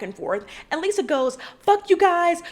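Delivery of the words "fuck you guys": louder, higher mock anger; punchy imitation of a quarrel; retold angry outburst. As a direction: imitate someone lashing out. Acting out Lisa's angry outburst.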